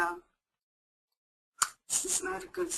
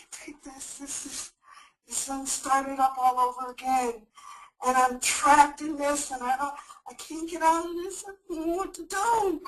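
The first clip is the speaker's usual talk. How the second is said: rising panic, louder and pleading; panicked; 4 dB louder than usual. Acted. Caller trapped at home pleads for help, panicked. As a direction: sound trapped and desperate. Role play of crisis caller.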